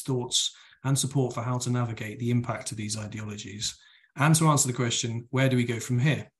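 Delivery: sober, measured read-out of a blurb; professional reading. Real, not acted. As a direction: read it out in an even telephone voice. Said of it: "very, like, professional and sober reading".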